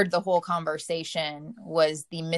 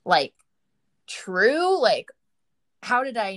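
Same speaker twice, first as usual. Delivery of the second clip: disbelief; 3 semitones higher than usual. Retold or imitated. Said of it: "looking over and be like".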